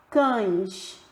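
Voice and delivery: Cães said slowly for the weak E; slow syllable demo. Shown as a demonstration. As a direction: draw out Cães to show the glide. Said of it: "Olha como o E tem um som mais fraquinho". (pronúncia lenta de Cães)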